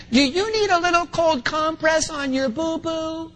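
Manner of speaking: put-on high-pitched mommy baby talk; imitating soothing wife. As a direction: mimic a mom fussing over a child's small hurt. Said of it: "here's what she said".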